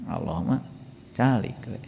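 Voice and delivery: hushed. Retold or imitated. Worshipper telling God to stay quiet, hushed mock. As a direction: shush God as if he's a nuisance. Mocking people hushing God.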